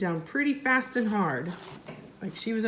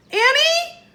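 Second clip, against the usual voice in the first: high, loud call of alarm; shout; 7 dB louder than usual. Acted. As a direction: yell her name in fright. Jack shouts to sister.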